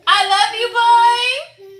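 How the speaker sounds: very high, loud, tearful holler; high-pitched wailed declaration; loving shout. Pretend. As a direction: cry it out with exaggerated affection. Repeats loud cry to son.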